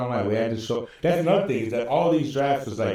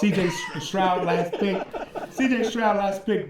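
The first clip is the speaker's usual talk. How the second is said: hyped-up quote; 4 semitones higher than usual. Retold or imitated. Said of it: "he's like".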